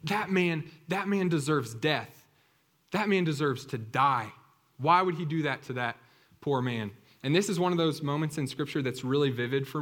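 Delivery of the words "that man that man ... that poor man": a furious king judging the rich man; the king outraged, condemning the rich man; livid. Acted. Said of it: "He is livid".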